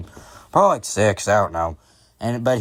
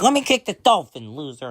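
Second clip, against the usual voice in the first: put-on high-pitched child's demand; mock bratty kid voice; bratty little kid; 4 semitones higher than usual. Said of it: "The kid's just like".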